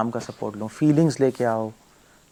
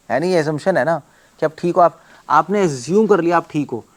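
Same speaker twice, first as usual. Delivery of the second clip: ordinary talk, nothing marked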